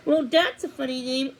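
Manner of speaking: laughing at the name; giggling. Acted. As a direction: giggle through the words. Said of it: "burst into giggles".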